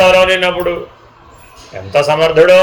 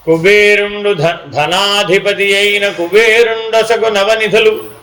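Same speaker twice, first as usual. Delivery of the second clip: scripture recitation; slower than usual. Acted.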